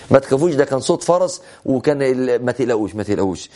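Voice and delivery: low, settling retold reassurance; calm them down, voice dropping away; reassuring. Prophet calms frightened townspeople in retelling.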